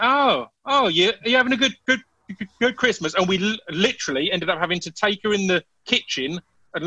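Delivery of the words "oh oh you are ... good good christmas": high, fake-polite sweetness; sugary, pretend-friendly greeting; mock sweet.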